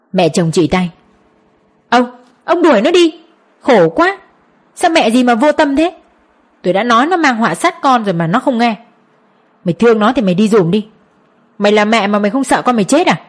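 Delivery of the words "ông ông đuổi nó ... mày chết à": shrill scolding. Acted. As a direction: drive her away in a high scolding voice. Mother-in-law scolding, ordering her away.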